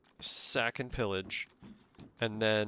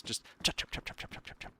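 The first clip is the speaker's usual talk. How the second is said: zombie run noise. Retold or imitated. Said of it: "That's a zombie run".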